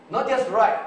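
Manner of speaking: Not just write punched high and loud; emphatic contrast. Shown as a demonstration. Preacher stressing inscribe over write, high and loud. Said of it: "That's why it says to inscribe".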